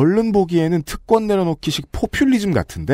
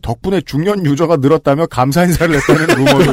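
laughing; 4 dB louder than usual. Real, not acted. Laughing through rumor.

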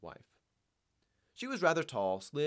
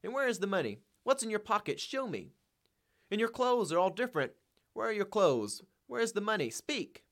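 high, raised frantic demands; frenzied cry; 10 semitones higher, 5 dB louder than usual. A narrator's reading. Wife demanding the money from her husband, frenzied cry. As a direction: fire off urgent, frenzied questions. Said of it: "She cried out in a frenzy".

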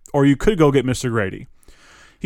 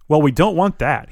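laughing; 4 semitones higher, 3 dB louder than usual. Acted. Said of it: "he says, laughing".

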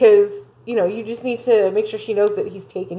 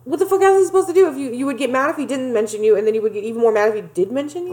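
exasperated rant; 2 semitones higher, faster than usual. Real, not acted. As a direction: rant like you're fed up. Ranting at Emily.

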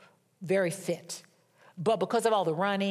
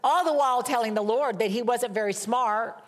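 higher and louder, fast near the end; rising outrage at the cost; worked-up indignation; 4 semitones higher, 4 dB louder than usual. Retold or imitated. Indignant telling of ordering flowers.

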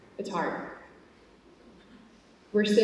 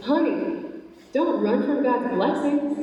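mild retold shout, pitched up; slow, higher-pitched mock holler; imitated calling out; 5 semitones higher, slower than usual. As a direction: call after someone without really yelling. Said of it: "this man shouts out after her".

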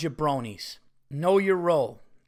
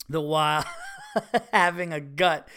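laughing through it. Real, not acted. Laughing while reading a joke.

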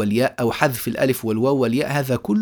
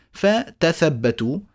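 slow recitation; 2 semitones higher, much slower than usual. Shown as a demonstration. Teacher reciting the reading.

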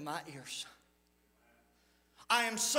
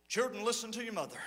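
casual; 2 semitones lower, 3 dB quieter, faster than usual. Retold or imitated. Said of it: "with the casual".

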